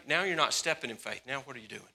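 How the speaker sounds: ordinary talk, nothing marked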